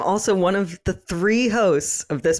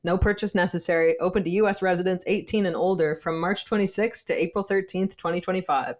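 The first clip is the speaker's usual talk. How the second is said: ad read; 3 semitones higher than usual. Acted. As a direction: read the legal terms like an ad. Reads sponsor legal copy.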